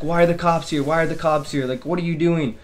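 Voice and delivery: imitated panic, pitched a little up; mildly frantic. Scared kid asking his friends about police at the door, mildly frantic. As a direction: retell it with a touch of alarm. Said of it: "he's scared as hell".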